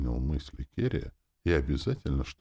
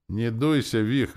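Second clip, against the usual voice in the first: bright teasing, higher and louder; teacher teasing a sulking boy, higher and louder; cheerful; 8 semitones higher, 6 dB louder, slower than usual. Acted. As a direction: cheer him up playfully. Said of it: "весело проговорила Ольга Петровна".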